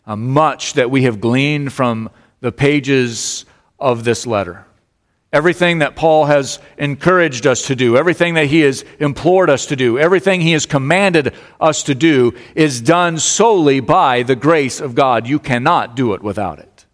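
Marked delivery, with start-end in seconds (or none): 5.3-15.3 raised, insistent sermon delivery; lifted preacher's voice; emphatic preaching. Real, not acted. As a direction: press the point home to the congregation. Preaches with rising force.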